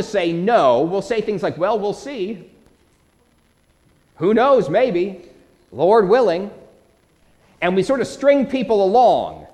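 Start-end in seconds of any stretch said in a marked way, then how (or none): 1.6-6.5 higher-pitched mock stalling; indirect, noncommittal. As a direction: imitate someone politely dodging a no. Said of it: "be indirect at times when we want to be nice".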